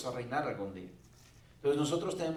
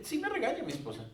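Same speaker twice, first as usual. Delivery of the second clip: laughing admission; 2 semitones higher, 3 dB louder, faster than usual. Real, not acted. Pastor laughing as he admits his wife scolds him. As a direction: laugh it off while owning up.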